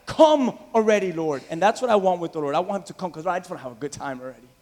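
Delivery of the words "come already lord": eager plea. Acted. Preacher voicing the church's eager plea, louder. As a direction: cry it out eagerly. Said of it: "you guys know exactly what I'm talking about".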